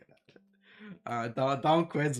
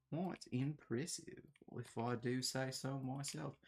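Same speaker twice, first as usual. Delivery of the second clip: slow, softer mock self-satisfied voice; silly put-on voice; 6 dB quieter, slower than usual. Streamer echoing their own compliment to a viewer, silly put-on voice. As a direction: draw it out in a jokey character voice. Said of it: "I don't know why I do these voices".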